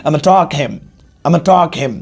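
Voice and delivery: "I am going to talk" clipped to "I'm talk him"; casual British-style contraction; contracted "I'm talk him". Shown as a demonstration. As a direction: slur it short and quick. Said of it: "देखो British में कैसे बोलेंगे".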